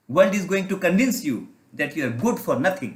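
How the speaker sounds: slow, weighty English warning; grave slow warning to the audience; slow emphatic warning. Acted. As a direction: lay each word down slowly. Preaching emphasis.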